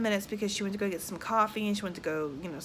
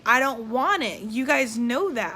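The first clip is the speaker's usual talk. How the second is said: mildly indignant, emphatic refusal; retold protest; 3 semitones higher, 4 dB louder than usual. Patient refusing the epidural to hospital staff, retold protest. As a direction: push back firmly, retelling an argument.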